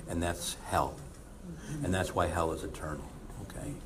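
low, soft and grave; God's final word to the hardened sinner, low and quiet. Pretend. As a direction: speak as God, solemn and quiet. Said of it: "God says".

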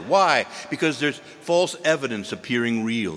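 ordinary delivery

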